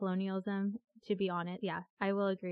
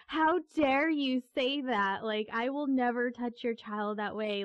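high, loud, slow start, then easing off, retold scolding; retold angry yelling; 4 semitones higher, 4 dB louder than usual. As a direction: scold the mother as you remember it. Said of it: "yelled at her in Malagasy".

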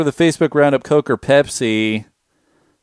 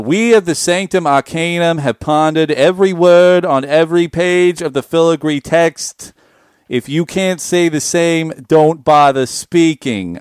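pompous senator. Pretend. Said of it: "act like a senator and read a magic card".

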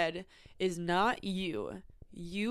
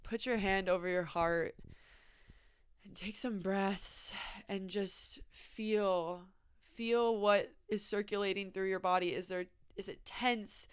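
soft, unhurried, guiding them to breathe; calm guiding; 4 dB quieter than usual. Real, not acted. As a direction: lead a gentle check-in with pauses. Guides listeners to pause and feel.

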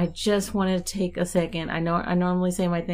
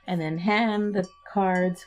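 voice cracking; slower than usual. Real, not acted. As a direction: let the voice crack on the words. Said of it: "Why did my voice crack like I was thirteen?".

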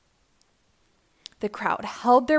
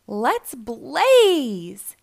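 loud rallying cry; a loud, heroic battle cry; shout; 7 dB louder than usual. Acted. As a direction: shout it to launch off at speed. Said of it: "he shouted".

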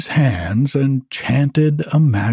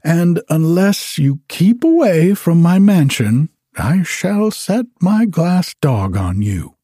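put-on higher, lofty threat from a rich young lady; haughty lady; 6 semitones higher than usual. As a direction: look down on him and warn him off. Haughty lady warns off visitor.

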